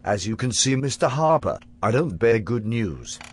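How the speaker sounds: put-on British accent, lightly done. Future Harper to his younger self, in a put-on British accent. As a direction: future self playing a posh Brit. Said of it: "You adopted this accent as part of your disguise".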